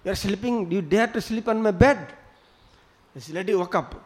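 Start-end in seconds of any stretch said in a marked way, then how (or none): 0.0-2.0 mildly raised voice of an outraged landlord; mock angry shout. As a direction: act out a scolding, only half shouted. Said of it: "he was shouting and screaming".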